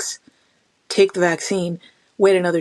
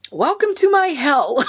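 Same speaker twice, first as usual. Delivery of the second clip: high laughing half-shout; laughing retort; 7 semitones higher than usual. Real, not acted. Lupus patient laughing back at panicked people.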